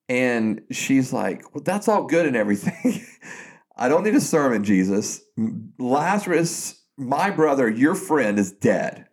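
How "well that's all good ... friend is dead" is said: imitated annoyed sister, pitch lifted, mildly heated; retold upset. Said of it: "she's mad, angry. She's upset".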